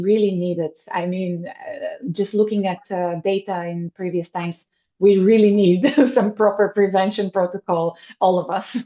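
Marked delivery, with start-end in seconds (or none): 5.0-8.9 said through a laugh, louder; laughing emphasis. Real, not acted. Laughing as she urges the host on prevention. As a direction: push it out laughing.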